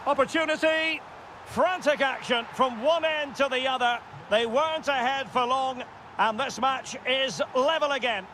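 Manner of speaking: lifted voice for an equaliser; excited commentary. Real, not acted. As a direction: call the equaliser with some excitement.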